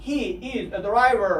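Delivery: He is said slowly, both words clear; careful full form He is; drawn out He is. Shown as a demonstration. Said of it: "باید شما اینها رو حتماً بدونید".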